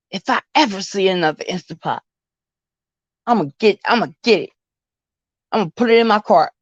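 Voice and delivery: crunching ice while talking; chewing noisily. Real, not acted. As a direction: talk through a mouthful of ice. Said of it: "Sorry, guys, I'm eating ice".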